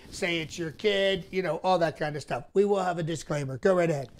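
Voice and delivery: blustery Trump-style salesman voice; Trump impression. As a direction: brag like a huckster politician. Trump impression comedy sketch.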